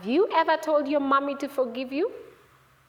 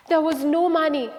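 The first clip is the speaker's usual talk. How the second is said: higher, louder storyteller dismay; growing dismay; rising alarm; 5 semitones higher, 6 dB louder than usual. A narrator's reading. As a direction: raise the alarm a notch. Second empty pocket, rising alarm.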